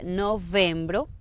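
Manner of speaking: NOVEMBRO slowly, v clear; careful teaching model of "novembro"; Portuguese month name. Shown as a demonstration. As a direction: draw out "novembro" for learners. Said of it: "noviembre sería".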